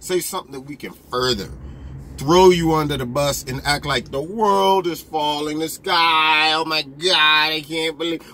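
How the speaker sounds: low, pleading mock newsroom voice; mocking media. Media watching Trump on TV, low mock pleading. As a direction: beg the TV for a scandal, mockingly. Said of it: "they sit there watching the T V like".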